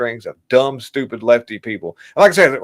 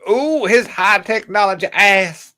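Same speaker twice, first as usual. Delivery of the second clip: high, slow, savoring mockery; mocking ooh; 8 semitones higher, 4 dB louder, slower than usual. Real, not acted. Streamer mocking Maxine Waters' phrase. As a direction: relish the ridiculous phrase. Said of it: "repeating Maxine Waters' phrase".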